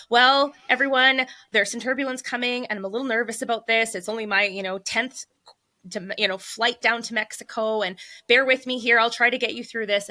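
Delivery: shaky nervous pilot. Retold or imitated. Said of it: "he's kind of shaky in his voice and he goes".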